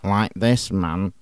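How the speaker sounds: laid-back, quiet and lazy; relaxed stoner drawl; chilled out. Shown as a demonstration. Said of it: "sound quite relaxed and chilled out".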